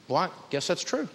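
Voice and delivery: small, subdued mock climbdown; sheepish concession. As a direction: act out grudgingly backing down, very quietly. Woman in story sheepishly concedes.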